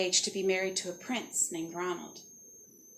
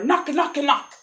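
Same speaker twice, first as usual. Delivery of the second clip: knocking; 5 semitones higher, 6 dB louder, slower than usual. Acted. Imitates knocking on the door.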